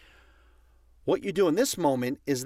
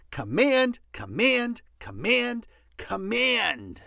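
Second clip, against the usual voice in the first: insistent repetition; 8 semitones higher, slower than usual. Real, not acted. Repeating the key word forcefully.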